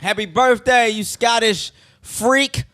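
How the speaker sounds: light put-on Scottish accent; badly faked Scottish, dragging the last word. Friend wishes a Scotsman happy birthday, mock Scottish accent. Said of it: "that's a great Scottish accent".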